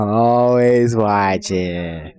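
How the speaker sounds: creepy Roz voice. Pretend. Roz quote, very slow.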